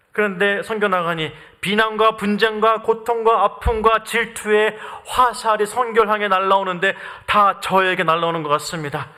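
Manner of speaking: usual speaking voice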